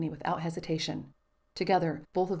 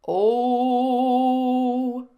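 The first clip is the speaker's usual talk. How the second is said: loud, high burst of delight; excited oh; 6 semitones higher, 10 dB louder than usual. A narrator's reading. Father bursts out joyfully before the song, excited. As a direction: throw in a big delighted oh.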